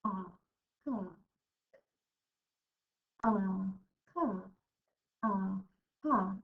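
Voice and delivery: drawn-out ah before car; sounding out car. Shown as a demonstration. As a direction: stretch the ah, then say car. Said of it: "do car together".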